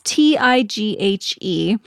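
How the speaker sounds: spelling T I G H E letter by letter, slowly; spelling a hard name for the listeners; spelled out letter by letter. Shown as a demonstration. Slowly spelling the name out for listeners. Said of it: "oh, geez".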